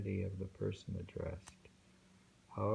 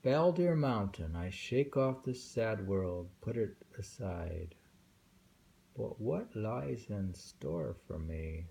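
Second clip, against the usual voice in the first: unhurried recitation, lingering on each line; slow poem recital; slower than usual. Acted. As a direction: read it like an old verse. Reciting Saigyo's mountain poem.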